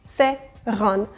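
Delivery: "seran" in two slow parts, se-ran; both vowels sounded. Shown as a demonstration. Teacher showing no vowel is dropped in seran, evenly split. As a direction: give E and A in seran equal weight. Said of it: "we're equally saying E and A".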